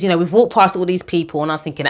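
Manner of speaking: ordinary talk, nothing marked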